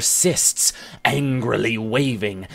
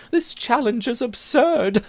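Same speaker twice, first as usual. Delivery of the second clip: frank mutter; 12 semitones higher than usual. Acted. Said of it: "our Irish hero mutters frankly".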